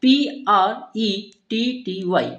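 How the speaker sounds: letters read slowly one by one; slow spelling. Shown as a demonstration. Teacher spelling the word pretty for the class, slow. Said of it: "next आता है word".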